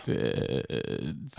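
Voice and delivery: slow creaky drawn-out word; vocal fry. Acted. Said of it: "I heard some vocal fry".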